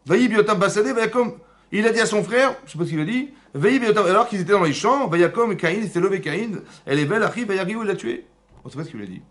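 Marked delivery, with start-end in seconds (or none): 0.0-8.2 loud, high, relentless recitation; emphatic verse reading. Real, not acted. Teacher reading and translating to prove his point, loud and insistent. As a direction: drive each phrase of the verse home.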